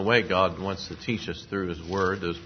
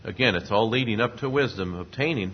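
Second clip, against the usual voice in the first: ordinary delivery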